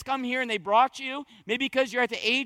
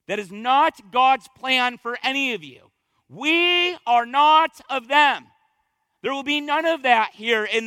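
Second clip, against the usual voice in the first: emphatic preaching; 5 dB louder than usual. Real, not acted. Preacher declares to congregation.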